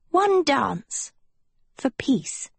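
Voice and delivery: high, earnest vow; lifted voice, pausing before the pledge. A narrator's reading. Sophie offering Agatha a truce, vowing. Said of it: "Sophie vowed".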